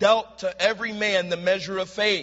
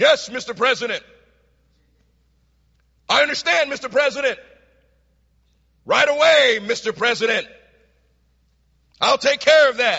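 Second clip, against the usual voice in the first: mock, showy, loud, self-important, important-sounding voice; 4 semitones higher, 6 dB louder than usual. Telling a story, acting out a colonel on the phone so a private hears, real loud. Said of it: "said in a real loud voice".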